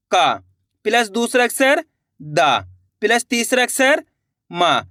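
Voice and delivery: का, दा, मा each said with a full long aa; name each letter का दा मा with its full aa sound; letters named with full vowel. Shown as a demonstration. Teacher naming letters to students, full aa on each. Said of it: "पहला अक्षर है इसके अंदर का".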